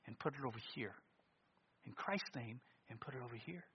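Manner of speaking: gentle pulpit hush; hushed earnest preaching. Acted. Quiet, intimate preaching.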